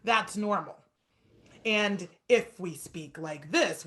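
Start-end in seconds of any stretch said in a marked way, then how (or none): 1.7-3.8 a hint of even, robotic speech, slowed down. Shown as a demonstration. Teacher demoing robotic speech by speaking slowly. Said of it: "which is like a robot".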